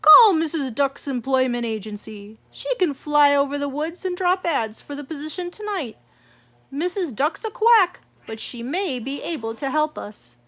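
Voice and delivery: loud, booming boss voice; chief bunny. Acted. Chief Easter Bunny instructing Missus Rabbit, loud booming orders. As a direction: give brisk orders.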